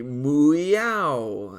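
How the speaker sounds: mooyow done as a cat-cow meow; playful cat-cow noise. Retold or imitated. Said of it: "That's what a cat says".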